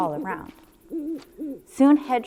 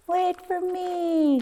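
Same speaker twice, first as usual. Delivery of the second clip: high, slow Mouse calling; Mouse crying out; 10 semitones higher, slower than usual. Acted. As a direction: call after them as tiny Mouse. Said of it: "cried Mouse".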